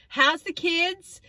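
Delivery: high, slow sing-song question; imitating the friend. The friend asking about her kids, slow high sing-song. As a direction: stretch it out cheerfully. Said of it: "then they're like".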